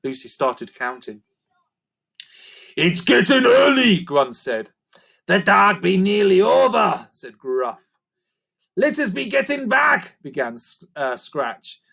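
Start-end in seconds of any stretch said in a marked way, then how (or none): 2.8-4.0 creaker voice. A narrator's reading. Creaker speaks. 5.2-7.1 creaker voice. A narrator's reading. Creaker speaks. 8.8-10.2 creaker voice. A narrator's reading. Creaker speaks.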